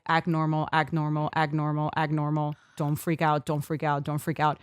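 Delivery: low, soft monotone chant; self-calming inner voice. Retold or imitated. Woman talking herself down before a proposal, hushed steady chant. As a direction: repeat it evenly under control, like a mantra. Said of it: "one side of my brain was like".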